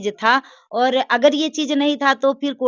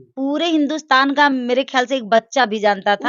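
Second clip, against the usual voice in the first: raised, louder voice pressing the point; heated insistence; 3 semitones higher, 4 dB louder than usual. Real, not acted. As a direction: argue back firmly and loudly. Heated disagreement with interviewer. (ऊँची आवाज़ में ज़ोर देकर बहस)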